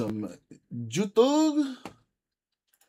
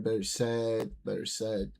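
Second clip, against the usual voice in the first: put-on Filipino accent, low-key; lightly imitated Filipino English; 3 semitones lower, 5 dB quieter than usual. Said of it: "did that with a Filipino accent".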